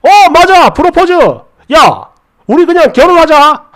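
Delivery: loud, high-pitched, jumping right in; eager outburst. Acted. Boyfriend seizing on the word proposal to ask for marriage, acted loud eagerness. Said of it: "마치 제 말을 기다렸다는 듯".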